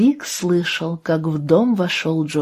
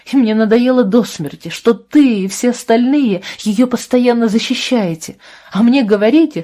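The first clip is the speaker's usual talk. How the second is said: high, loud, pent-up grievance pouring out; angry rant; 4 semitones higher, 4 dB louder than usual. Acted. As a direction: let every complaint spill over. Абра выплёскивает обиду Джошуа. (гневная тирада Абры Джошуа, громко и высоко)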